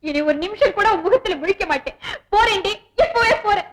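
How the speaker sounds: put-on tearful wail rising high; fake crying. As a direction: pretend to sob while storming off. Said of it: "பிரமாதண்டி உன் நடிப்பு".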